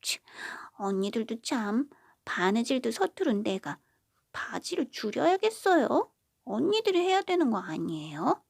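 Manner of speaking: sulky pout, rising high on the protest; pouting youngest. Acted. Youngest daughter pushing the chore back on her sisters, pouting whine. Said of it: "입을 삐죽삐죽 내밀며 말했어요".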